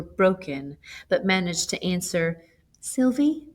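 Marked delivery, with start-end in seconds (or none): 2.8-3.5 forced out with effort. A narrator's reading. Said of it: "with much effort".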